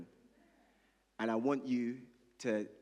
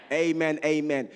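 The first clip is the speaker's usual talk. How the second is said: loud, ringing amens; shouted amen; 3 semitones higher, 10 dB louder than usual. Real, not acted. Pastor shouting amen with the congregation, loud. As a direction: call it out to the room.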